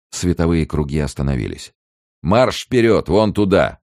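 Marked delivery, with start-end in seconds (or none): 2.2-3.8 loud, high marching command; rough order. A narrator's reading. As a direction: order them onward in a rough voice. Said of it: "приказал грубый голос".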